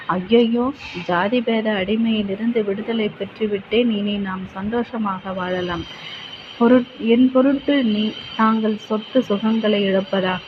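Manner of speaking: alarmed cry that settles into relief; dismayed lovers. Acted. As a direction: voice both lovers with rising concern. Lovers worry over lost wealth.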